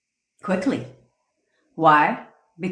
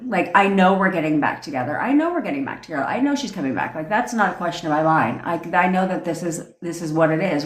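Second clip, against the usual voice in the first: sure, easy everyday tone; natural tone; faster than usual. Shown as a demonstration. Telling viewers her confident manifestation in natural tone. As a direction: say it like it's settled fact. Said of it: "Saying it in a natural tone to you".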